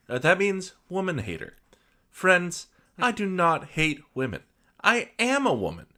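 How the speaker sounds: sweet, preachy author reading her note; prim housewife author voice. Acted. Reads author's note in persona.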